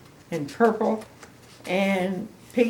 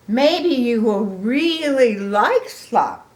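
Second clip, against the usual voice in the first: slow, louder, coaxing; hopeful pig; 4 semitones higher, 7 dB louder, slower than usual. Acted. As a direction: coax him gently along. Piggy hoping.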